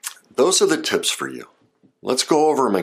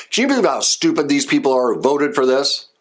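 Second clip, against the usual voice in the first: mock angry rant; 5 semitones higher than usual. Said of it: "Like right there, did you hear that?".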